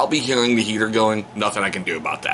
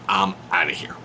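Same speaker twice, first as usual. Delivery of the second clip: muttered exit; 3 semitones lower than usual. Retold or imitated. Retelling defiance to mother.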